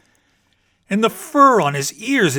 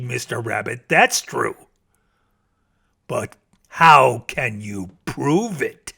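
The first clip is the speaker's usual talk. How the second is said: proud bear; 4 dB louder than usual. Acted. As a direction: dare the rabbit to prove it. Bear voice held.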